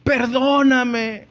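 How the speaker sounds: slow, drawn-out pleading prayer, a touch of weeping; tearful plea to God. Retold or imitated. A man in his car asking the Lord's forgiveness, slow and pleading. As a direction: beg forgiveness slowly, voice heavy with remorse. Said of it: "Empecé a llorar".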